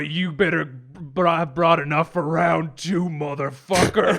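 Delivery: tough-guy taunt. Acted. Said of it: "he goes".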